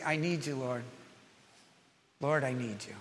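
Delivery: soft, low breathed prayer; quiet prayer. Shown as a demonstration. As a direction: pray it under your breath. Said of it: "I just say".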